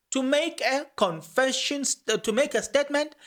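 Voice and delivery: slow it down and point the words; slow emphasis. Shown as a demonstration. Rereading the confession for viewers, slow emphasis. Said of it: "let me say it very slow".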